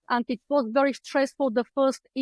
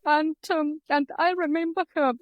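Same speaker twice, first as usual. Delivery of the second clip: remember a lost loved one, choking up; real emotion, tearful; 3 semitones higher than usual. Real, not acted. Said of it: "I'm going to get emotional".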